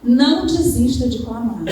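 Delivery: loud, stressed exhortation to the church; preacher pressing the flock not to give up, forceful; emphatic preaching. Real, not acted. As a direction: hammer the point home from the pulpit.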